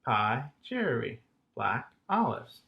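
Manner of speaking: "Pie cherry, black olives" in matched beats; one long, two short on "Pie cherry" and "black olives"; matching rhythms. Shown as a demonstration. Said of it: "sound the same when you say them".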